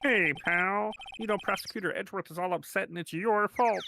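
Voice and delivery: lightly voiced dopey cop, calling everyone pal; Gumshoe voice. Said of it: "what's the Gumshoe voice?".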